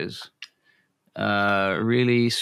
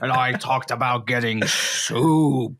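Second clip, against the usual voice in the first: Nixon impression; slower than usual. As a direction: drag it out like a mock Nixon. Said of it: "When President Nixon came on your bus".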